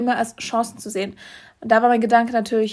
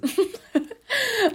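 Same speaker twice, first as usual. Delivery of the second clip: laugh; 11 semitones higher, 3 dB quieter than usual. Real, not acted. Laughs after choking.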